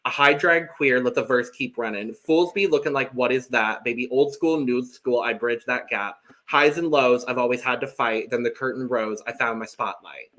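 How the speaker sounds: rhythmic verse read-out. Shown as a demonstration. Reading a contestant's verse to co-hosts, rhythmic recital. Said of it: "I will read off Michael's".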